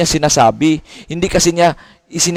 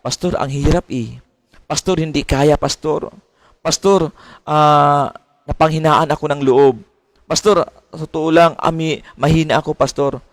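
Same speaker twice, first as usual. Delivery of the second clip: a hint of a defeated believer; discouraged member. Member telling the pastor they have lost heart, understated whine. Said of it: "ganyan ang ating tono ng ating pananalita".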